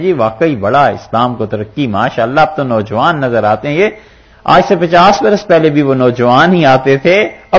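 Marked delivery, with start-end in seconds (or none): 0.0-3.8 mock smug praise. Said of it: "तो लोग कहते हैं".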